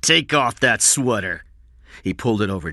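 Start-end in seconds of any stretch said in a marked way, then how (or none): 0.0-1.4 loud, higher, forceful command; shouted order. A narrator's reading. Cy orders the boy to undress, shouting. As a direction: order it off angrily. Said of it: "Cy shouted".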